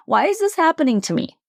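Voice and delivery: quick, high mock whine; hammed-up poor-me complaint; self-pitying whine. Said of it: "self-pity and whining".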